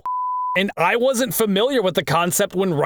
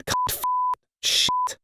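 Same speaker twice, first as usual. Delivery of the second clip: voice crack; 4 dB quieter than usual. Real, not acted. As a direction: curse cracking into a squeak. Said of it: "Nice voice crack".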